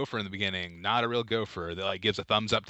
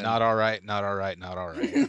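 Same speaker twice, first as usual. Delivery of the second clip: Matthew McConaughey; 3 semitones lower than usual. Acted. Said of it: "this one doesn't have McConaughey in it".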